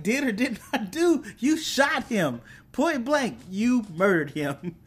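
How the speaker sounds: high-pitched mock outrage, amused; hammed-up accusing comeback with laughter underneath; incredulous retort. Acting Sam's incredulous comeback.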